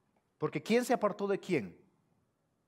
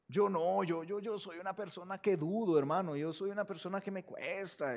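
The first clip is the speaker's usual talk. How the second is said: self-doubting excuse; 5 dB quieter than usual. Retold or imitated. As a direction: imitate a reluctant believer. Acting a hesitant believer declining.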